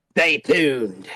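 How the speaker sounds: smooth radio announcer sign-off. Shown as a demonstration. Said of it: "That was my best radio voice".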